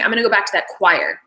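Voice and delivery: "choir" said in place of "church"; line ending on "choir"; wrong word. Retold or imitated. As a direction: slip and say "choir" where the line has "church". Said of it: "instead of".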